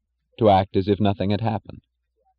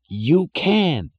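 panicked Jim; 9 semitones higher than usual. A narrator's reading. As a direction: babble it in rising, angry alarm. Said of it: "he cried".

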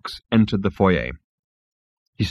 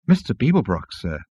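awed wonder. Acted. Starstruck insect addresses Zaphod, in mild awe. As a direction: address a hero with hushed awe. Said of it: "said the insect in awed wonder".

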